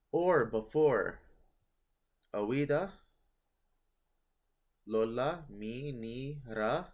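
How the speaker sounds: "awida, lola, mi, ni, ra" spelled out slowly, each syllable loud and separate; teacher sounds out each example word for the class, slow and loud; sounding out examples. Shown as a demonstration. Coptic teacher spelling out example sounds, slow and loud. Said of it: "a consonantal iota or u".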